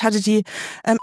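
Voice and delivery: ordinary talk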